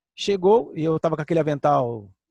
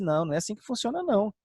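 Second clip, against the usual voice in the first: voicing Paul; 4 semitones higher than usual. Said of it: "Paulo disse".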